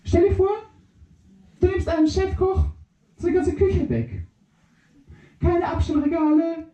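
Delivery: high, excited little microbe; squeaky microbe voice. Acted. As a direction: chirp it up high and fast. Microbe explains chef image.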